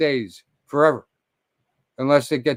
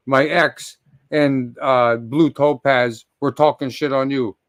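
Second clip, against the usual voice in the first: usual speaking voice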